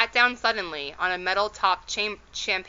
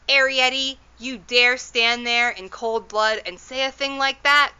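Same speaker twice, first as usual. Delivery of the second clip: higher and louder, outraged mother; shocked scolding; 5 semitones higher, 5 dB louder than usual. A narrator's reading. Mother outraged at daughter wanting to climb, scolding. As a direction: rise up and scold her daughter in disbelief.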